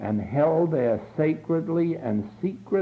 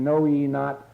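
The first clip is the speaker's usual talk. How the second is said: inner divine voice; 4 semitones lower, slower than usual. Retold or imitated. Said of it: "the voice saying".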